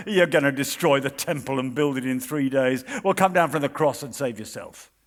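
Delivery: lightly voiced scoffing bystander taunting Jesus; mocking crowd. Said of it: "you hear the crowd mocking and hurling their insults".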